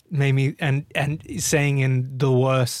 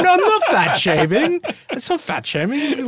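laughing; 12 semitones higher than usual. Real, not acted. Protests while laughing at accusation.

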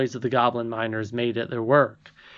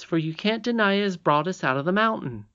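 insistent; 7 semitones higher than usual. Acted. Princess argues her point.

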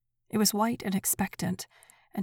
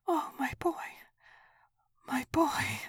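high, breaking cry over her son; a mother crying out for her dead son; crying for her boy; 8 semitones higher than usual. A narrator's reading. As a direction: let the grief crack through, pitched high.

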